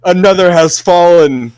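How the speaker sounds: lightly voiced otherworldly figure; a hint of a solemn spirit; mysterious entity voice. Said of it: "You hear a voice say".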